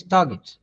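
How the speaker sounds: "target" with a hard g; correct pronunciation. Shown as a demonstration. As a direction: say "target" with g as in get, no j sound. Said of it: "tendency to use D as".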